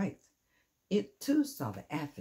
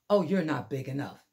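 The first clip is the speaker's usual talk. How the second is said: dismissive brush-off; 7 dB louder than usual. Acted. Grouchy ladybug dismisses rival.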